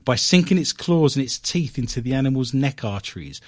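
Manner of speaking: lightly dramatic British newsreel read; old English British accent. Acted. Host finishes squirrel report, mock old British newsreel accent. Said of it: "I'm gonna do this in an old English British accent".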